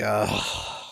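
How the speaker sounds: low, soft groan of dread; long sighed ugh; dismayed ugh. Retold or imitated. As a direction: let out a low, quiet "ugh". Dismayed reaction to being called out.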